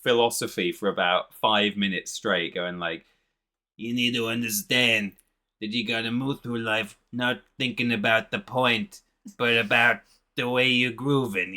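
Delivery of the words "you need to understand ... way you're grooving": lightly voiced cartoon philosopher; Rockman. Rockman monologuing philosophy at the boy, lightly imitated character. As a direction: imitate a groovy rock creature holding forth. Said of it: "he does all this, like, philosophy".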